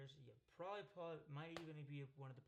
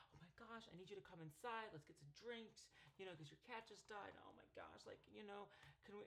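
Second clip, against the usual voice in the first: imitated glitching chatter, run-on and softer; 5 semitones higher, 5 dB quieter than usual. Possessed girlfriend inviting him in for drinks, glitching. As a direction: babble softly as if stuck mid-glitch. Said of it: "she's, like, glitching".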